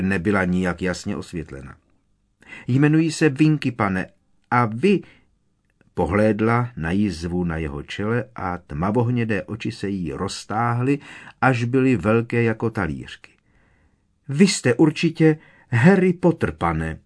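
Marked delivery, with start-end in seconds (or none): 2.7-5.0 high squeaky house-elf voice; elf squeak. A narrator's reading. House-elf Winky speaks. 14.3-17.0 high, louder squeak of wonder; awed elf. A narrator's reading. Elf recognizes Harry in awe.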